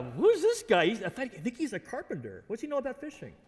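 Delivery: incredulous who-does-he-think-he-is; mock scepticism. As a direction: question the stranger's know-how, swooping in pitch. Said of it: "it's kinda like a".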